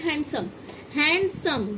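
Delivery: „हैंडसम” as HAN-sum, without d; silent d. Shown as a demonstration. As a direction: model हैंडसम with the d dropped. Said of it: "ड नहीं होता".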